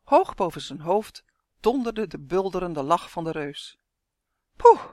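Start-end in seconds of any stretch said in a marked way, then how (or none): 4.6-4.8 acted puff of relief; relieved little sigh. A narrator's reading. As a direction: let out a short sighing "phew". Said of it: "zuchtte Uf".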